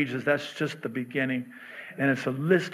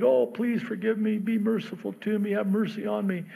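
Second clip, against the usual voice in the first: higher pleading voice, lightly acted; pleading debtor; 6 semitones higher than usual. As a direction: beg for mercy in a raised voice. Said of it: "He pleaded".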